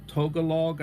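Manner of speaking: "Tagalog" said as TOH-guh-log; tentative pronunciation. Shown as a demonstration. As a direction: say "Tagalog" with a long O in the first syllable. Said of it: "is the pronunciation".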